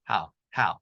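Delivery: HOW as a reduced American "have", ending barely sounded. Shown as a demonstration. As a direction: say "how" with a weak, swallowed v. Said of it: "have는 발음의 특성이".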